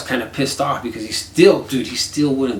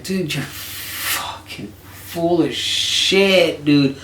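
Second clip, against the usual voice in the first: scornful drawl; 3 semitones higher, much slower than usual. Retold or imitated. Calling out friend's lie.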